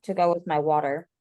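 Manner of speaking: talking while eating; words round a bite of noodles; mouth full. Real, not acted. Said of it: "Or what are you eating".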